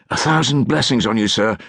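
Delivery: lightly voiced grateful street boy; grateful urchin. A narrator's reading.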